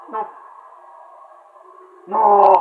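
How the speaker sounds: loud, drawn-out cry of refusal; dismayed shout. Real, not acted. Gamer losing a fighter, dismayed shout.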